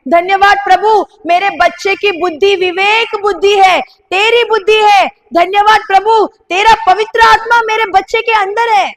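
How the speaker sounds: a fervent thanksgiving prayer; grateful prayer. Shown as a demonstration. Pastor models a prayer for the congregation, fervent. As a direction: pray it over your child with gratitude. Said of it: "लेकिन आज से बोलो कि".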